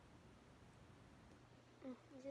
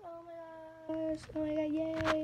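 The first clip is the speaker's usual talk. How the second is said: mock squealing oh my god, higher and louder; gushing fangirl; 4 semitones higher, 10 dB louder than usual. Mocking fans gushing over the couple, excited squeal. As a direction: imitate a fan gushing over a cute couple. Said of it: "And you're like".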